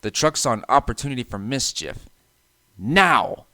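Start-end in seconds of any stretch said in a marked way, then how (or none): 2.8-3.5 loud sudden command; shout. A narrator's reading. Trucks ganging up on James, shouting. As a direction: bark the signal to push. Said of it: "they shouted".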